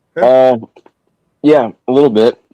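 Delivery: words through chewed food. Answering a friend while eating snack mix, the speaker talks with mouth full. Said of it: "I got a mouthful of Czech".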